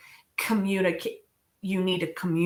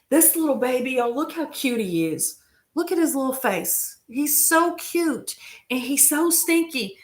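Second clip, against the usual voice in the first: higher sing-song pet voice; 5 semitones higher than usual. Real, not acted. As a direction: gush over the kitten, high. Fawning over the cat.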